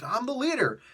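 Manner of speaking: indignant villain. Retold or imitated. Retold villain insists on his authority.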